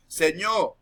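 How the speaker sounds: "señor" said as "seño", with no final R; "señor" ending open, the R left off; dropped final R. Shown as a demonstration. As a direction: say "señor", swallowing the R at the end. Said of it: "En vez de decir señor".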